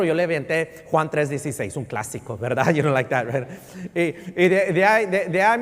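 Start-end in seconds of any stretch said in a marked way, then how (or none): 2.7-3.5 laughing. Real, not acted. Joking with the congregation. 3.9-5.6 laughing. Real, not acted. Laughing while telling anecdote.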